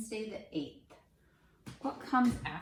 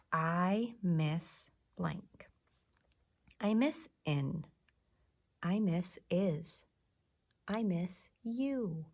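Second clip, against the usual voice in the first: slow reading; 3 dB louder, slower than usual. Shown as a demonstration. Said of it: "teacher tries each sight word".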